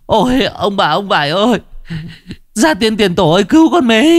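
a desperate cry to the ancestors, high; high, rising wail; calling ancestors. Acted. Chí calls ancestors for help.

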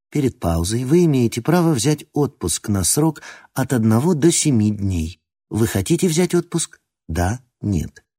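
alien metallic computer voice; metallic robot voice. Acted. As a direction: speak like a machine prompt. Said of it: "чужим металлическим голосом".

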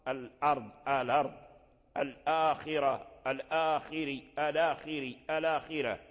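الأرض and الآخرة without the hamza, its vowel carried on the lam; Warsh transfer. Shown as a demonstration. Teacher demos the easier Warsh forms, hamza dropped. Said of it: "التخفيف على اللسان".

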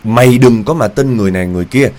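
imitating grandfather cursing at his wife; angry cursing. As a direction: bark orders like an enraged husband, retold. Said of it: "Rồi ông chửi".

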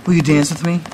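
lightly voiced effeminate plea. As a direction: imitate a man asking in an effeminate voice, only slightly put on. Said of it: "like, effeminate voice".

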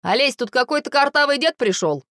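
a hint of a call into the flat; bossy call. A narrator's reading. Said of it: "по-хозяйски крикнул мужик".

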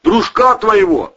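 lightly voiced tough cop, loud; Gleb Zheglov style. A narrator's reading. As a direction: bark it like a tough detective interrogating. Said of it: "в духе Глеба Жиглова".

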